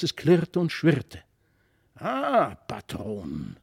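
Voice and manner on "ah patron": exclaiming. A narrator's reading. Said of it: "rief der Herr von Brakel".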